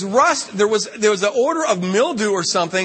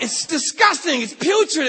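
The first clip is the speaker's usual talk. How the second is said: disgusted shout; 8 semitones higher than usual. Retold or imitated. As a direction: shout out the revulsion. Arguing with nephew in bathroom.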